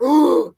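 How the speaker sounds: high "Ooh" of amazement; imitated awed gasp. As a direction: mimic an awestruck reaction-video viewer. Imitating gasps in reaction videos.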